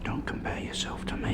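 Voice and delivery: harsh whisper; angry whisper. Acted. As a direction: whisper it through contempt. Detective hisses at suspect.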